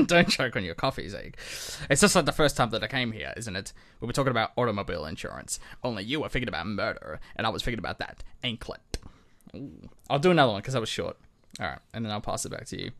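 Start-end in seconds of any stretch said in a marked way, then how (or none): 0.1-9.0 a hint of a hard-boiled detective reading; noir detective voice. Host reads a Walter Neff quote, mild noir voice. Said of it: "do our best noir detective".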